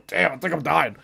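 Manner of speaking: choking on laughter and coughs; spent, laugh-choked gasping; coughing from laughter. Real, not acted. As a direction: wheeze it out between coughs. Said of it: "I gotta cough it out".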